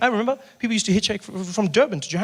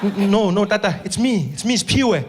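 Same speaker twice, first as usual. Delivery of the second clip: panicked reply. Acted. Driver answering confused Mandela.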